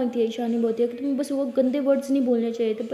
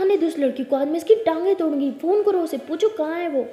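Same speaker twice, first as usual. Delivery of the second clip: angry mother; 2 semitones higher, 5 dB louder than usual. Acted. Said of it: "गुस्से में आ जाती हैं".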